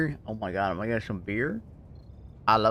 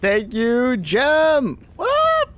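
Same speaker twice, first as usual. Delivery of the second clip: excited greeting; 14 semitones higher, 8 dB louder, much slower than usual. Real, not acted.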